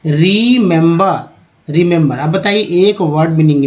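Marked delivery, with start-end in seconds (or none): 0.0-2.2 रिमेंबर drawn out very slowly, then said once more normally; teacher spelling out रिमेंबर slowly; slow remember demo. Shown as a demonstration. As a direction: stretch रिमेंबर syllable by syllable. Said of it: "क्या उच्चारण किया गया?".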